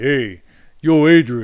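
very loud voice full of attitude. Acting out a jerk walking up with attitude: imitating a jerk with attitude. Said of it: "that kind of attitude".

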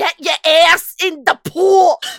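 high, frantic Brooklyn mom voice, hollered full blast. Retelling her mom ordering her into the pool, imitating frantic Brooklyn mom. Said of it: "like, Brooklyn, like, she grew up in Brooklyn".

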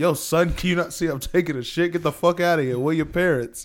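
put-on New York accent. Retelling a video of a man shouting at a boy: imitating a New York accent. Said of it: "He's from New York".

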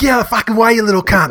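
put-on broad, high Australian bogan mercenary accent. Describing the best part of a film's mercenary, imitating a super aussie guy. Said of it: "like a super Aussie guy".

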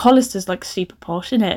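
normal talking voice

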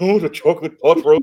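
very loud, high-pitched giant bellow. Asked for a best impression while listing the cast, doing a Willie the Giant impression. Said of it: "do your best on Willie impression".

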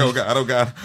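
frantic, anxious, panicked outburst. Retelling having to write a check while waiting in line: retelling own panic. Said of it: "I'm panicking".

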